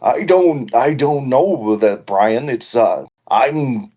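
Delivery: lightly put-on imitation of a friend; halting, half-hearted mimicry of a buddy; Brian impersonation. Co-host has a go at his friend's voice, lightly imitated. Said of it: "That's about the best I can do".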